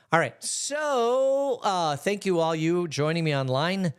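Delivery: sped-up cartoon chipmunk filter. Real, not acted. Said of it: "listening to my chipmunk voice".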